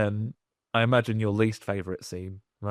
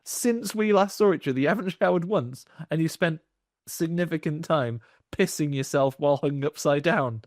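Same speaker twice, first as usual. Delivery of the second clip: mock Dracula; 4 semitones higher than usual. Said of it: "he said".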